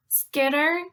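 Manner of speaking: slow, measured poem reading with pauses; deliberate, spaced-out syllables; haiku reading. Shown as a demonstration. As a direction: read it out slowly so the beats can be counted. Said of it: "I'm gonna read you three haikus".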